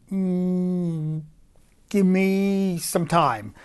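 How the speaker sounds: slow, drawn-out Trump hum; lightly voiced Trump mulling it over; Donald Trump voice. Impressionist asked to do Trump, a slow light Trump voice. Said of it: "can you do Donald Trump?".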